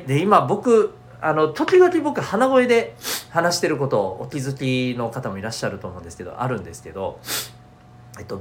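talking through a blocked nose; nasal, congested voice; stuffy nose. Real, not acted.

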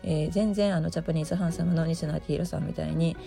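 hoarse morning voice; raspy just-woke-up voice; gravelly voice. Real, not acted. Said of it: "ただのガラガラ声で終わってしまった".

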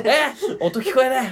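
lightly voiced pilot. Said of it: "みたいな".

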